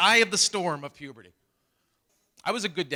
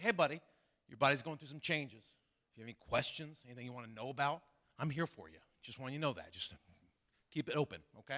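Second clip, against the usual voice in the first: much softer, careful and caring; gentle dad talk; 4 semitones lower, 12 dB quieter than usual. Retold or imitated. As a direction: ease into the talk softly. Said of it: "I was like".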